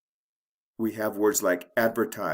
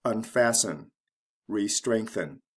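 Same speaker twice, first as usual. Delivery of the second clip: un-FAST-en, re-STRENGTH-en; stress before the ending. Shown as a demonstration. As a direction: stress the middle syllable of unfasten and re-strengthen. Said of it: "right before the ending is stressed".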